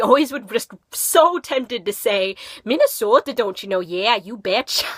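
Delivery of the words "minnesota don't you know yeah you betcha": lightly hammed-up Minnesotan accent; a joking touch of thick Minnesotan; exaggerated Minnesotan accent. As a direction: put on a playful Minnesotan accent. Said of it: "That's exaggeration, but there are people".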